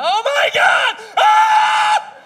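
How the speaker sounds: building to high screaming panic; panicked scream. Retold or imitated. Driver seeing spinning semi, building to a scream. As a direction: start worried, end screaming. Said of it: "you're like".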